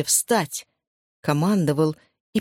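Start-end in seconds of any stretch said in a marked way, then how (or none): 0.0-0.7 command to himself. Acted. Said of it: "командовал он себе".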